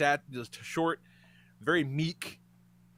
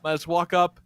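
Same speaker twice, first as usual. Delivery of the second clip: ordinary delivery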